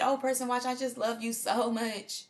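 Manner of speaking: high, slow, syrupy mock affection; fake sweet talk. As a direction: lay on phony love thick. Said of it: "like I said".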